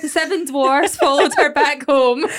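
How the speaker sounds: telling it through real laughter; laughing. Real, not acted. Co-host joking that the tale is a fairytale, laughing. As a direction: let the laugh ripple through the words.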